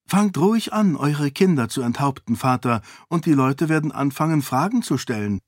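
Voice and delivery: parry his threat with ease; calm defiant princess. Acted. Sarene answers the threat. (gelassen herausfordernd)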